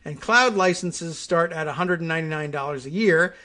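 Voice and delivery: steady, clear read-aloud delivery; lively informational reading; news article read. Acted. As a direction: read the article copy out evenly to listeners.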